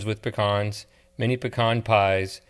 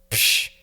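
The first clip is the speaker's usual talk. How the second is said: scoff. Acted. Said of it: "the waitress scoffed".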